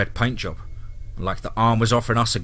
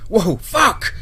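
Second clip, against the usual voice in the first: much higher startled cry; startled shout; 10 semitones higher, 4 dB louder than usual. Acted. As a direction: jump back in fright. Lunging back from monster.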